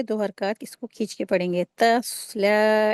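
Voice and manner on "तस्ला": तस्ला slow, with the स्वाद heavy and the ला drawn two beats; heavy saad. Shown as a demonstration. Teacher reciting तस्ला for students, heavy स्वाद. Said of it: "इस तरीके से".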